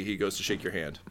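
normal talking voice

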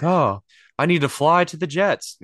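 high, loud mock enlightened quarterback; Aaron Rodgers. Mocking the quarterback's dramatic epiphany for the co-host, high and loud. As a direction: play the hammed-up quarterback who just saw the light. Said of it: "and he'll be like".

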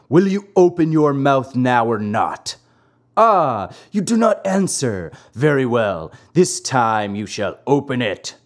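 firm, threatening villain voice; menacing assassin. Acted. Assassins demand the marionette open his mouth, menacing. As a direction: press the captive with mild menace.

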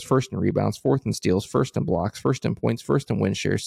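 rushed list without pausing for air; all in one breath. Real, not acted. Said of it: "I'm gonna read these in one breath".

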